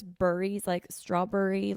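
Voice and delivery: Philly BURRIES, berry rhymed with hurry; dad's Philly accent. Retold or imitated. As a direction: imitate a Philly dad saying strawberry as straw-burry. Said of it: "my dad says burries".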